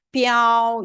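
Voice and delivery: "삐아오" in Mandarin first tone, high and level. Shown as a demonstration. Teacher demonstrating tone placement, "삐아오" in high level first tone. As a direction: hold "삐아오" high and even, without a fall. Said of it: "요 아에다가 요렇게 일성하면".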